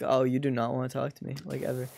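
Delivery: ordinary talk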